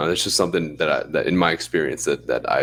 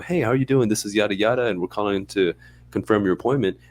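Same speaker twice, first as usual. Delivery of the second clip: a hint higher than usual, unanimated call; lower phone take; 4 semitones higher than usual. Retold or imitated. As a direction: read it like a routine reminder call. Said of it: "I've had people I pick up".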